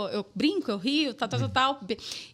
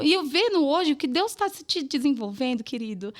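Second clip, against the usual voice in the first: normal talking voice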